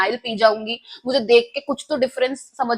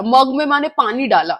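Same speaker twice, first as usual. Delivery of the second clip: ordinary delivery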